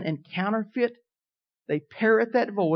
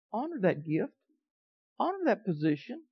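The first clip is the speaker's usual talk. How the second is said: gentle holy voice; 7 dB quieter than usual. Retold or imitated. Voicing the Holy Ghost.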